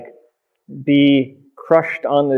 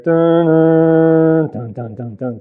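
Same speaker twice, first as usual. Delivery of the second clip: movie suspense music; 3 semitones higher, much slower than usual. Retold or imitated. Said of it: "you'd hear".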